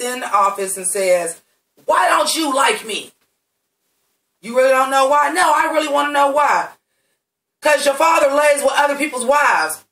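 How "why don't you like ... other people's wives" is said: both parts voiced higher and louder, mock confrontation; acted scene dialogue. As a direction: play out the argument, raised and pushy. Acting out Archie and Hiram scene.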